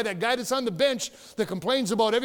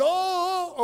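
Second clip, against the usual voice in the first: mock scream; 9 semitones higher than usual.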